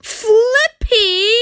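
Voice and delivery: high, loud shocked cry. Acted. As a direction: gasp out the name in shock. Surprised reveal.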